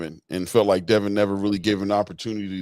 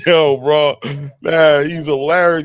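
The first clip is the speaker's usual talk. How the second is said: excited; 3 semitones higher, 8 dB louder, slower than usual. Real, not acted. Cracking up at the impression.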